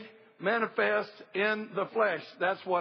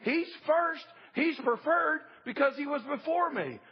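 slow, higher proclamation as John the Baptist; John hails the one who comes first; John announcing; 6 semitones higher than usual. Retold or imitated. John the Baptist tells everybody, proclaimed slow and high. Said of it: "tells everybody".

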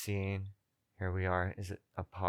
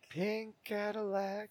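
excited; 12 semitones higher, 3 dB quieter, slower than usual. Real, not acted. Delighted at the pink car.

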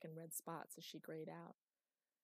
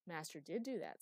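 harsh. Acted. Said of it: "said Chloe harshly".

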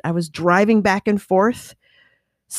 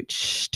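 stamp sound effect; 11 dB quieter than usual. Shown as a demonstration. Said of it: "that's my sound effect too".

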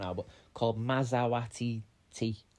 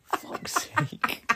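exasperated; 13 semitones higher than usual. Real, not acted. Exasperated aside.

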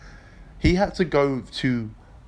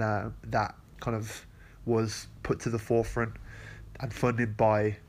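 stuffy nose from a cold; blocked nose, sick voice; nasal voice; 3 dB quieter than usual. Real, not acted. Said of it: "excuse my nasally voice".

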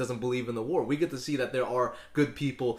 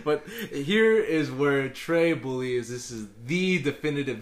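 laughing; 3 semitones higher, 5 dB louder, slower than usual. Real, not acted. Laughing through announcement.

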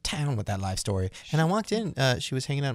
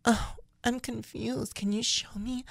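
high, slow, dopey confused voice; slow ditzy woman; 12 semitones higher, 3 dB quieter, slower than usual. Retold or imitated. Narrator mimics the woman in the lobby, high and slow. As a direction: drag it out like she's lost. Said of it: "And she goes".

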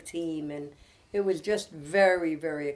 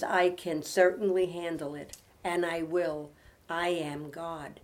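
devotional reading; 4 dB louder than usual. Acted. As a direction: read it as comfort for troubled listeners. Reads devotional aloud to close.

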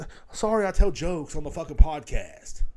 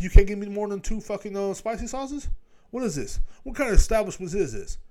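high, incredulous comic rant; outraged complaint; 7 semitones higher than usual. Acted. Customer calling the restaurant to complain, mock outrage. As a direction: demand answers in rising disbelief.

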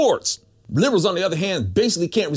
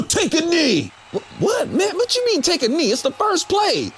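whiny player voice; 5 semitones higher than usual. Acted. Acted player dialogue.

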